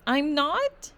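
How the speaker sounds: high startled question; a jolt of alarm; shocked. A narrator's reading. Child shocked.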